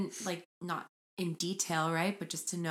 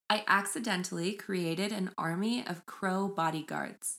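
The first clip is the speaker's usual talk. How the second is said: measured read-aloud of a post title. Acted. Host reading Reddit title to co-host, measured read-aloud. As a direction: read it out evenly, like a headline.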